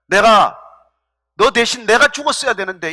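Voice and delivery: understated imitation of a grieving cry; retold wailing. David wishes he had died for his son, mildly wailing. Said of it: "이런 통곡을 해요".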